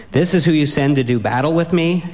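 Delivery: mocking giant taunt. Goliath taunting David.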